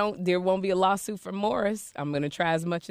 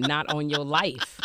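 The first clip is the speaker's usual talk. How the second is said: slow inner retort; 5 semitones lower, slower than usual. Retold or imitated. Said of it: "In my head, I'm going".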